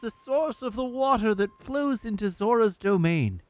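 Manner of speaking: lightly voiced noble Zora prince; Prince Sidon voice. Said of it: "I'll just try to do his voice normally".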